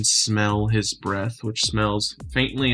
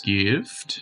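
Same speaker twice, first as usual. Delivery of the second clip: a slow, soft question from a gentle giant; soft careful giant; 3 semitones lower than usual. Acted. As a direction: ask it carefully, like a giant holding back. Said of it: "it seems to be softer now, almost careful".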